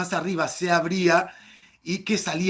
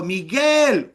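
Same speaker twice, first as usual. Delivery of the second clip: mother calling; 3 semitones higher, 5 dB louder than usual. Retold or imitated. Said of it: "mi madre no me dijo".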